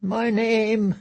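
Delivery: the scream catching in your throat; choked fear. Acted. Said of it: "a scream caught in his throat".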